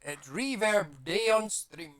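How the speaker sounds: slow robotic effected voice. Shown as a demonstration. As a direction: talk through a robot voice filter. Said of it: "That should turn me into a robot".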